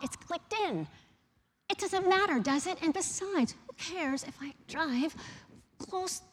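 loud, indignant retold rant; sarcastic fuming complaint, loud; angry rant. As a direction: vent like you were furious in the car. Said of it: "I was so mad".

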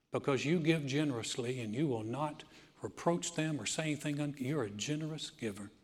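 hushed pastoral prayer; closing prayer. Acted. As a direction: pray it over the room. Leads a prayer.

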